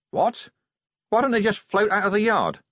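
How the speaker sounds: sudden high astonished question; startled outburst. Acted. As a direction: jolt up in disbelief. Vimes startled.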